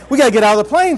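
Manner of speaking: instructor calling out. Retold or imitated. Instructor voiced in flight story.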